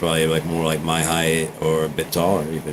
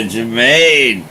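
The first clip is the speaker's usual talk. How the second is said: excited call; 5 semitones higher, 6 dB louder than usual. Real, not acted. Calls name after laugh.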